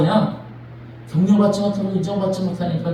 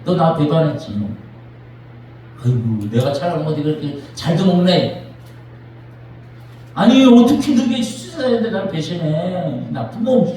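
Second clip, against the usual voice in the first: mock reproach; 3 semitones lower than usual. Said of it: "그러지 않으셨어요".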